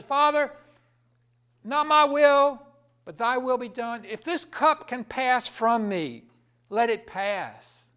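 loud, slow anguished plea; crying out to God. Acted. Jesus in the garden crying out loud to his Father. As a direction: cry it out to the Father, slow and aching. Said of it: "he cried out to God".

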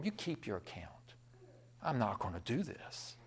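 low, very soft retold reply; subdued, settled resolve; quiet firm refusal. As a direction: calmly turn it down without raising the voice. Accountant calmly turning down account.

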